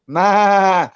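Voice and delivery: sudden loud high yell; shout. Real, not acted. Ranting at an online stranger, a sudden loud yell. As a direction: bark the word out at them. Shouting at listeners mid-rant.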